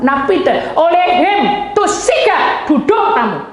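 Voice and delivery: high, emphatic commanding cry; forceful command. Retold or imitated. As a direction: order them down with rising force. Commanding in God's name, acted out. (perintah lantang penuh tekanan)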